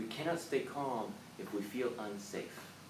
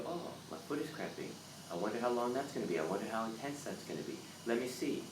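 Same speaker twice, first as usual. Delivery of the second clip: softer, unhurried curiosity; calm and curious; 4 dB quieter than usual. Retold or imitated. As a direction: observe the cramp with calm interest. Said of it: "you go".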